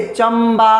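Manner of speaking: चंबा with the m held between the syllables; M sound brought out. Shown as a demonstration. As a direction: lean on the m in चंबा. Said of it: "एम आ रहा है ना".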